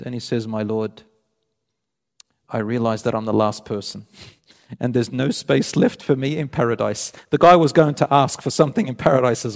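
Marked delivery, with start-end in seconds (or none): 0.5-7.1 low, subdued voice of mild despondency; understated sorrow, dropped a little in pitch; sad, dejected. Acted. Last man telling his Lord there is no space left, mildly dejected. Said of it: "very sad, very tearful, and very depressed".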